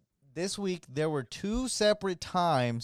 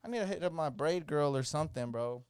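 exasperated inner voice; 6 semitones higher than usual. Retold or imitated. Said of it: "later I started thinking".

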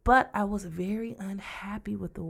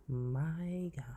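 hushed, whispered amazement; voiceless, reverent exclamation; awed whisper; 8 dB quieter than usual. Real, not acted. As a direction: whisper it, overcome with admiration. Awed by the film performance.

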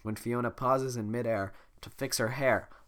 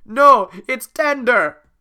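loud, drawn-out protest; 12 semitones higher, 17 dB louder, much slower than usual. Acted. Shrek protests the arrow.

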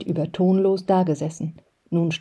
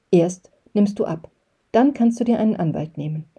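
firm weight on "Erst" and "dann"; emphatic; 2 semitones higher than usual. A narrator's reading. Father laying down terms to mother, "Erst" and "dann" said emphatically. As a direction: set out "Erst nimmst du ab" as a condition, then lift "dann". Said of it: "formulierte er mit Nachdruck einen Satz".

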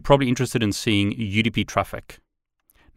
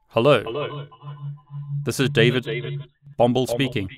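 echo; 3 semitones higher than usual. Real, not acted. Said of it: "A lot of echo".

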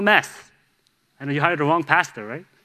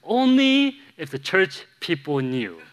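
wife's kicker; 3 semitones higher, slower than usual. Retold or imitated. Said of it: "there's a kicker right at the end".

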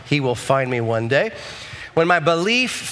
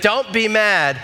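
"Don't be mad" raised and pleading; worried warning; 5 semitones higher, slower than usual. Retold or imitated. Wife warning husband before bad news, pleading. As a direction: ease him gently into bad news. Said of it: "But she leads with".

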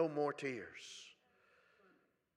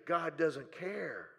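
enemy's whisper; much slower than usual. Pretend. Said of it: "you hear the voice of the enemy".

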